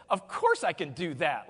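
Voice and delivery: cocky and totally put out; cocky, arrogant. Shown as a demonstration. Speaker models a line for partners to copy, cocky and arrogant. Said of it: "add a cocky, arrogant tone of voice".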